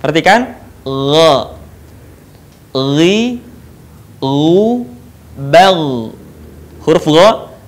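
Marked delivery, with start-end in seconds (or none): 0.0-6.1 "Gha, ghi, ghu" soft, without air flowing. Shown as a demonstration. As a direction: say each gha gently, without breath. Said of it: "Diucapkan dengan lembut".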